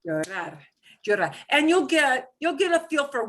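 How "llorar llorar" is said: Llorar, each time weighted on the final -rar; stress on last syllable. Shown as a demonstration. Teacher repeats Llorar for the student, stressing the last syllable. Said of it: "punch the last syllable a little bit harder".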